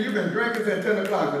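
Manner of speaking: quick, scolding accusation; accusing churchgoer. Retold or imitated. Churchgoer accusing a drinking neighbor, quick scold. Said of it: "You say".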